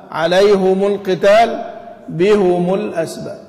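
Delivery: عليهم and بهم with both rounded, alayhumu, bihumu; Hamza and al-Kisai's reading. Shown as a demonstration. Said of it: "وحمزة والكسائي يضمان". (قراءة حمزة والكسائي: عليهم وبهم بضم الهاء والميم)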